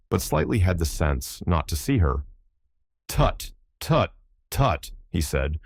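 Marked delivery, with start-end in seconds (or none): 3.1-4.9 lightly voiced doctor's tutting, pitched high; a hint of a pretend physician; make-believe doctor. A narrator's reading.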